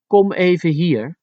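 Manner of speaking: put-on high, lightened beckoning to a child; lighter request. Shown as a demonstration. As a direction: call the child over without harshness. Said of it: "it makes it lighter".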